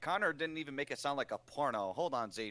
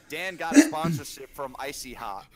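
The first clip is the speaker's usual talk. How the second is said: announcer line; 9 dB louder than usual. Retold or imitated. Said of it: "it's like".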